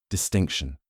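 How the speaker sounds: dry, doubting echo of the word; skeptical repeat. Acted. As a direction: repeat it like you don't buy it. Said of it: "twitching with skepticism".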